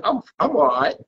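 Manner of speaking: British reply. Retold or imitated. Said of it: "But I won't say that".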